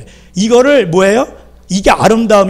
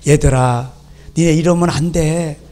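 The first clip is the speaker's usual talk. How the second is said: gently coaxing; 3 semitones lower than usual. Acted. God mildly talking to his children, gentle coaxing. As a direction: play a mild, patient admonishment. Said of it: "이렇게 안 나타나셨어".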